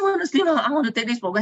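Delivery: high, loud mock repeat of her request; echoing the friend's request, high and loud in disbelief. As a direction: parrot her wish back in disbelief. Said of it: "I said".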